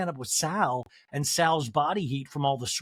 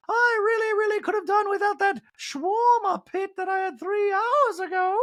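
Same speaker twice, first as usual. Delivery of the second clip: very high, louder mock voice; high whiny regret; Dree impression; 3 dB louder than usual. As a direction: complain in a high falsetto. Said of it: "Dree goes".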